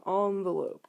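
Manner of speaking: envelope said ON-velope, overly fancy; ON-velope with an open ah. Shown as a demonstration. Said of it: "I feel like I'm being overly, like, fancy".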